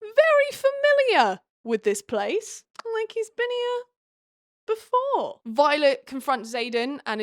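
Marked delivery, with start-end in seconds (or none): 0.0-5.4 high, sing-song hint; pointed insinuation. Acted. Narrator hints that Zayden knows this place, pointed insinuation. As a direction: stretch it out high, heavy with insinuation. Emphatic aside on suspicious familiarity.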